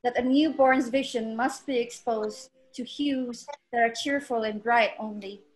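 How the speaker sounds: measured poetry reading with long pauses between phrases; unhurried spoken-word recital of a personal poem. Acted. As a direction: recite it line by line, letting each phrase settle. Reads her poem aloud over music.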